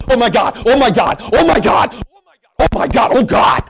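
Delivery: a hint of careless teen exclaiming; lightly mimicked teen chant; mocking teenagers. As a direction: toss off "oh my God" like a flippant teenager. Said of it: "teenage demon-possessed people".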